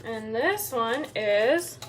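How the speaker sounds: slow, patient quizzing question; kindergarten teacher voice. Real, not acted. Mother quizzing toddler on colors.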